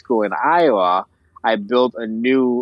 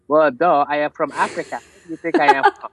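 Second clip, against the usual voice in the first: indignant retort; 3 semitones higher than usual. Retold or imitated. Retorting to mocking classmates.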